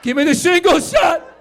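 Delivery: high, loud mock-desperate yell; frantic yell. Comic demanding a shot from the doctor, frantic yell.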